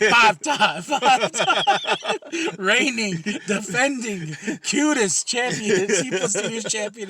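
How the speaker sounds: loud, drawn-out ring announcer hype. Pretend. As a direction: announce it like a title fight. Hyping a mock champion.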